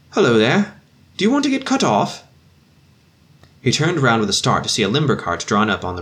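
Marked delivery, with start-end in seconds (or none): 0.1-2.2 loud hail across the road, much higher; calling out. Acted. Officer hailing the doctor from the limber cart, loud call. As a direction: call out to a man far off.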